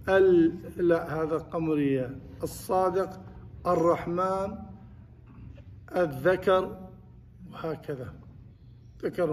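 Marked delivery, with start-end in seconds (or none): 2.4-6.8 "الصادق", "الرحمن", "الذكر" with doubled consonant, no l; assimilated lam. Shown as a demonstration. Teacher lists sun-letter words, lam left silent. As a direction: run the a straight into each doubled consonant. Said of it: "but you don't pronounce".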